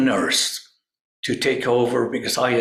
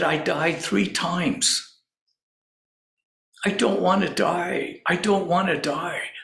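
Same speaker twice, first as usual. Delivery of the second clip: retold tearful plea; 5 semitones higher than usual. Crying patient telling doctor he died, imitated tearful plea. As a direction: plead like a frightened patient, pitched up. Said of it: "He's crying".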